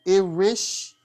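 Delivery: "Irish" sounded out with a questioning rise; tentative name attempt. Real, not acted. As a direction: try "Irish" unsurely, voice lifting at the end. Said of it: "I cannot pronounce your name".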